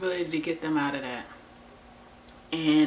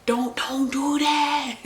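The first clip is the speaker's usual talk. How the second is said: laughing warning; 8 semitones higher, 4 dB louder, much slower than usual. Retold or imitated. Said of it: "And I'm like".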